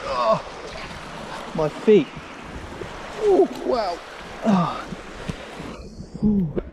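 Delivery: high, slow gasps of icy cold; swearing through the shock of freezing water; cold and grumbling. Real, not acted. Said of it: "It's fucking freezing".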